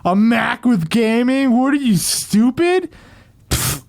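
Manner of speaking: slow, scornful jeer; mocking hater. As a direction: sneer like an online troll. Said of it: "a lot of people are gonna say that".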